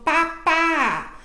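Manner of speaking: "papá" slowly, both syllables held; drawn-out, evenly separated "papá"; repeated-syllable demo. Shown as a demonstration. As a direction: model "papá" for a child, stretching the final vowel. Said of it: "muda pra sílabas repetidas".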